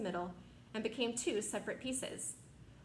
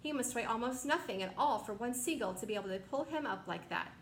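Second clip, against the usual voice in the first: delighted; 3 semitones higher than usual. Acted. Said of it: "watching him with delight".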